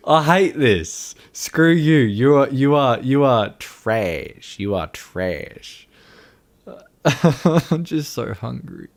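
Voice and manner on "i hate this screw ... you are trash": raised, higher, exasperated rant; loud mock-angry insults, slowing at the end; playful frustration. Real, not acted. Frustrated outburst, insulting after crying out.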